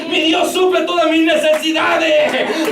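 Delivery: fervent preacher shouting his faith; preaching at full force. Real, not acted. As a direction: cry it out to the congregation. Preacher proclaiming God's power.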